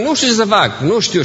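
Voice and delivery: mild mock despair over not knowing; helpless complaint. Wife stuck in early marriage, helpless whine. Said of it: "noi zicem de multe ori".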